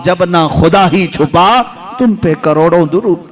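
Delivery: slow, devotional recitation of the couplets; poem recitation. Acted. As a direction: draw out each line like a naat. (धीमी, भक्तिभाव से शेर पढ़ना)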